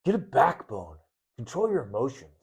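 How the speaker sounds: a hint of a blunt husband; lightly voiced curt man giving orders; mildly gruff, telling her to toughen up; gruff masculine. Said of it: "very masculine".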